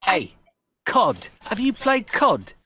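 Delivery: loud, high-pitched cool-kid impression; mock cool kid. Teasing interviewers about the slang, mock cool-kid voice. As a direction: call it out like a hyped-up kid, playing up "cod". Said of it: "is that how the cool kids said".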